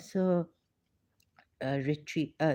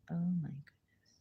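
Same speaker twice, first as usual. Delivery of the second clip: hushed, stunned whisper; real whispered shock; 7 dB quieter than usual. Real, not acted. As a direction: breathe it out in shock. Shocked by news.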